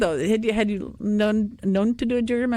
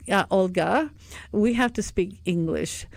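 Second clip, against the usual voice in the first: retold slow instruction; slower than usual. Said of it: "I finally said after a couple of days".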